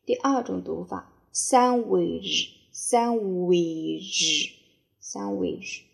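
sandwich said as san-wei, slowly; second pronunciation. Shown as a demonstration. (第二种读法：sandwich读成san-wei)

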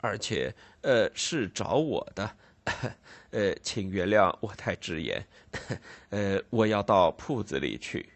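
hesitant, chuckling apologetic host; nervous Snagsby. Acted. Snagsby apologising awkwardly to his guests, hesitant and chuckling. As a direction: stammer an embarrassed excuse with little laughs.

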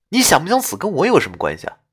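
fast, impatient ghost voice; brisk half-laughing retort; exasperated ghost. Acted. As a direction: rattle it off, amused and fed up. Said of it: "哭笑不得地说道".

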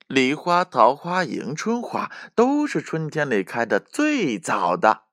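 high, lively squirrel voice; cheerful little squirrel. A narrator's reading. Squirrel answering the whole group, cheerful high voice. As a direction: list them in a high, happy voice. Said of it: "小松鼠笑着说".

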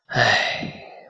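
put-on soft breathy sigh of an old tree; weary sigh. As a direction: sigh it out wearily. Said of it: "唉声叹气地说".

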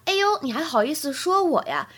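mildly indignant retort, acted for the lesson; a touch of disbelief at being criticized; challenging rhetorical question. Shown as a demonstration. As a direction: throw it back as a mock challenge. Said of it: "质疑的语气".

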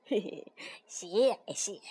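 grandpa toad chuckles, then thanks; low, pleased old laugh; happy chuckle. A narrator's reading. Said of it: "蛤蟆爷爷开心地笑了".

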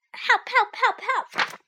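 repeated high, loud yelps; yelping for help. A narrator's reading. Dog stuck in the well keeps yelping, high and loud. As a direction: keep crying out, desperate. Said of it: "I started to yelp".

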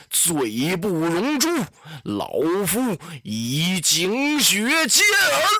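put-on slow, loud outcry of a loyal old minister; old minister denouncing the traitor Dong Zhuo; loud cry. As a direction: hurl the accusation out, word by word. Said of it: "有人大叫一声".

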